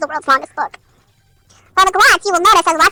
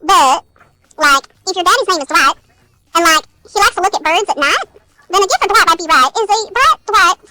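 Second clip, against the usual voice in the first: Valley Girl attempt sliding into a Southern drawl; slipping into Southern drawl. Reader losing the Valley Girl voice mid-rhyme, accidental Southern drawl. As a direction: let a Southern drawl creep in. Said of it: "a southern draw out of nowhere".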